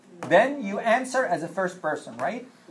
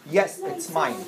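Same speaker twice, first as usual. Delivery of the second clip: higher-pitched yes it's mine; bright model answer; 8 semitones higher, slower than usual. Shown as a demonstration. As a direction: lift it up as a cheerful example. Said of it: "Let's do the positive first".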